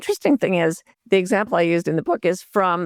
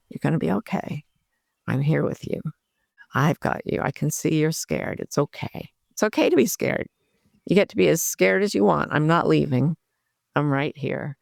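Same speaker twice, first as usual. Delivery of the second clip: gentle self-talk. Shown as a demonstration. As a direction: speak to yourself like calming a scared kitten. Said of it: "this way of gently approaching ourselves".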